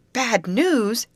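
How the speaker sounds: high, loud alarmed echo of the words. A narrator's reading. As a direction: snap the words back in alarm. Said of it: "echoed Molly".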